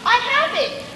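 high, loud eureka; sudden idea. Acted. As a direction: burst out with the idea. Huntsman finds a plan.

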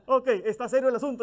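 riéndose al decirlo, algo más rápido; riendo. Real, not acted. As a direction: suelta la frase entre risas. (con una risa sincera)

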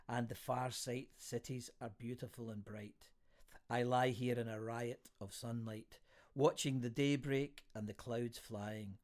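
measured, deliberate verse reading; poetry reading. A narrator's reading. Host reads a friend's poem to listeners, poetry reading. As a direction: recite it line by line with pauses.

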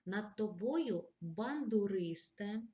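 slow, drawn-out poetic address with a rise on бандуристе; slow poem recitation. Acted. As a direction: recite slowly, lifting the address. Reads poem example.

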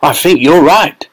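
a touch of an awed father; lightly voiced father. A narrator's reading. Father agreeing with his wife, mildly amazed. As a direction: say it with mild wonder.

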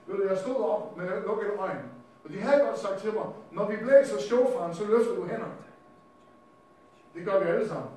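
loud preacher relishing the tale; animated preaching. Real, not acted. Preacher tells the crowd about the shofar, animated preaching.

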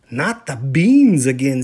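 exasperated kitten groan; loud groan of dismay. Acted. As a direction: whine it like a kid who's had enough beans. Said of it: "said Scapito".

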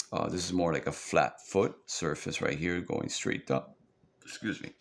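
talking through hiccups; hiccuping mid-sentence. Real, not acted. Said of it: "Oh, I got the hiccups".

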